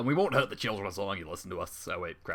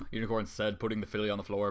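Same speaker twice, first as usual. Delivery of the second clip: normal talking voice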